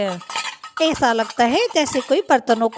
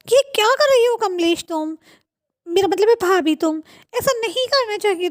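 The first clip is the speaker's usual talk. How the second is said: raised, upset pitch; embarrassed scolding; 5 semitones higher than usual. Acted. Riya telling off Kamlesh before her friends, upset. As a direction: scold in a high, mortified voice.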